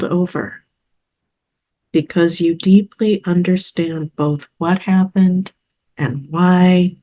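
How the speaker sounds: calm, measured meditation delivery; guided visualization. Acted. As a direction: lead the listener gently through it, with pauses between phrases.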